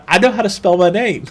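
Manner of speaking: indignant retold comeback; retold snappy retort. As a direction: fire back like it's obvious. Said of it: "I was like".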